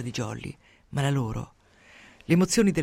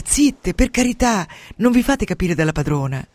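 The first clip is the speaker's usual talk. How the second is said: 1 pleading hush; 4 semitones higher, 7 dB louder than usual. Acted. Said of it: "Jolly le supplica".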